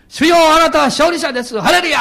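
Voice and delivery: loud praise. Shown as a demonstration. Preacher showing how he shouts praise alone in his car, loud. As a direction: call out the praise with full voice. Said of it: "大きな声で言います".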